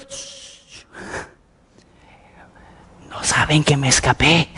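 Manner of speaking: whispered, urgent shushing; hushing whisper. Retold or imitated. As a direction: hush the room, they might hear. Pedro hushing the celebrating crowd. (Pedro calla al grupo susurrando con urgencia)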